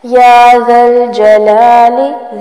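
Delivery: ذل said with a soft th-sound, not z; soft dhaal. Shown as a demonstration. Teacher showing learners the soft ذ in ذل. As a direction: keep the ذ in ذل soft and lisped. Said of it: "ذال ہے، زا نہیں بنانا".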